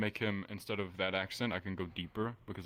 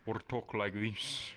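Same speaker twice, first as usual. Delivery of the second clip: deeper, different accent; slower than usual. Shown as a demonstration. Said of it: "More deep, uh, but different accent".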